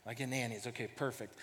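soft, low aside to himself; subdued reaction. Retold or imitated. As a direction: drop right down after the outburst. Dad's relieved aside after the outburst.

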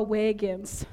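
"wagons" with a long "ay", like "waygins"; Minnesotan "wagons". Shown as a demonstration. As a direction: say "wagons" as WAY-guns. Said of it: "every single time I said the word wagon".

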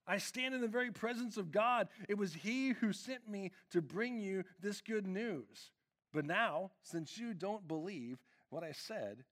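a heavenly messenger announcing himself; booming angelic declaration; commanding angel Gabriel. Retold or imitated. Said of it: "He's like".

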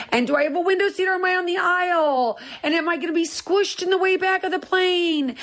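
high, fast, breathless worrying daughter; frantic daughter. Retold or imitated. Daughter listing flight worries to mom, high and frantic. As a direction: rattle off worries like the anxious daughter.

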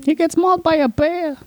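high joking voice. Pretend. Joking guess in squeaky voice.

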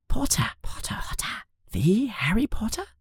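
breathy whispered chatter; children whispering about Harry. Acted. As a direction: whisper like excited kids. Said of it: "the children say quietly".

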